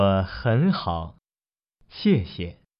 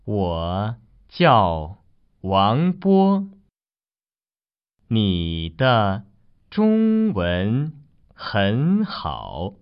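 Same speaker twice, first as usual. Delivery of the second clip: slow, with a pause after 你的; slower repeat. Shown as a demonstration. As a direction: read it again slowly for learners. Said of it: "Listen one more time".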